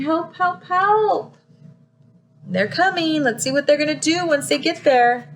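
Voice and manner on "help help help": put-on small baby voice. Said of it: "The little sister is saying".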